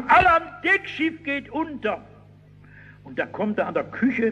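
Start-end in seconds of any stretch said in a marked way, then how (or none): 0.1-2.0 much higher, urgent call; alarmed shout. Retold or imitated. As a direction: yell the alarm down the corridors. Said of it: "und brüllt".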